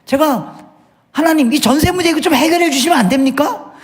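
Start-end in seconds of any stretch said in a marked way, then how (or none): 1.1-3.7 mock pleading prayer. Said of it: "이렇게 기도하고 왔거든요".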